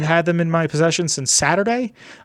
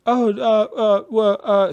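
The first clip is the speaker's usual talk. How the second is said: higher-pitched mock stammering; flustered bystanders; 6 semitones higher, slower than usual. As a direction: imitate people dithering, caught off guard. Mocking flustered people caught off guard.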